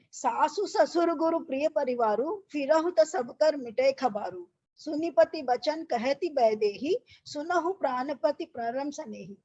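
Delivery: slow, measured chanting of the doha; verse recitation. Acted. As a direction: recite it like a Ramayana reading. Teacher recites Ramayana verse. (धीमा, लयबद्ध दोहा पाठ)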